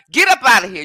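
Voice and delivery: loud, scolding "get up outta here"; loud dismissal. Real, not acted. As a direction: order him out of the room, loudly. Kicking Bruce out of chat.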